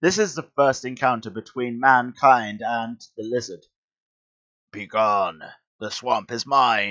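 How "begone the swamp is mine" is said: put-on supervillain creature voice. Reading a comic aloud, voicing the Lizard's first words to mankind: voice for the Lizard. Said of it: "Don't hurt my voice".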